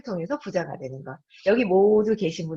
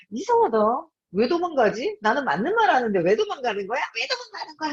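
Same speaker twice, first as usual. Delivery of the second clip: imitating her annoyance; 7 semitones higher than usual. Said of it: "제가 더 화를 확 냈어요".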